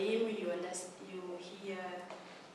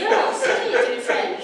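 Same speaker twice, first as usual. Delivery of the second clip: higher and louder, laughing through the words; laughing apology; 13 semitones higher, 13 dB louder than usual. Real, not acted. Guest laughing as she explains it was in French, loud laughing. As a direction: apologise while cracking up.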